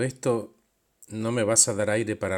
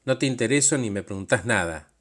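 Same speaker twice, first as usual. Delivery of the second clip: louder, accusing; raised voice; 4 dB louder than usual. Retold or imitated. Pedro raises his voice at the demanding self, accusing. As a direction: push back with a raised voice. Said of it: "le levanté la voz".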